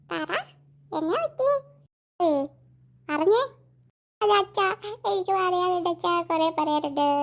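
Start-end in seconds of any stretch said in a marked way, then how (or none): 4.2-7.1 whimpered, halting confession; tearful. Acted. Crying girl telling father she has much to say, tearful. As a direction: whine softly through tears to Dad.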